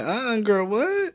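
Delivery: mock disbelief, pitch leaping up on "what"; retold incredulous double take; baffled reaction. Host recalls first hearing a real different song, baffled.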